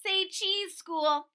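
high, loud, playful call; chirpy little photographer; cheerful child voice. Acted.

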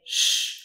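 "sh" close to the English sound; lighter English-like sh. Shown as a demonstration. Teacher showing what others say, lighter English-like sh. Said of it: "which is closer to the English S H".

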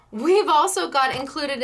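light, playful TV-pitchman hint; mock infomercial pitch. Host teases viewers like a shopping-channel presenter, lightly hammed. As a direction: toss it off like a late-night ad host, half-joking. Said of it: "I felt like an infomercial".

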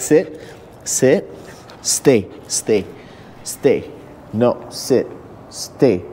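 dog-trainer voice, low and even; firm dog commands. Real, not acted. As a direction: set the dog down with steady orders.

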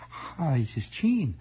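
put-on slow, high German-accented greeting; dignified old aunt with a hint of German; Aunt Teresa. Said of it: "they all had this vague German accent".

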